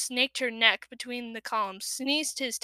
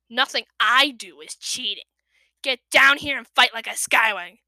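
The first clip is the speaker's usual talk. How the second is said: snarling; 7 dB louder than usual. A narrator's reading. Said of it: "Kestrel snarled".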